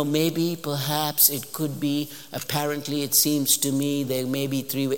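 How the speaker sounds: tentative, level-pitched string of qualifiers; mock a cautiously hedging academic; hedging professor. Professor avoiding any firm claim, hedging. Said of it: "like we do as professors".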